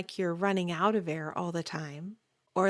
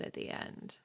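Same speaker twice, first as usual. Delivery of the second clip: vocal fry; 13 dB quieter than usual. Shown as a demonstration. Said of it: "a declarative sentence in English goes down".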